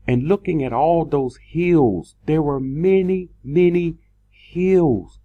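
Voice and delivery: rising in wonder at the hills; awed swell. Real, not acted. Awed memory of flying over hills.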